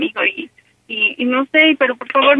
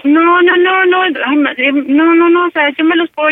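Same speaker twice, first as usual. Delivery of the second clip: urgent protest; 4 semitones higher than usual. Acted. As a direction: cut her off insistently. Caller protests panicked mother.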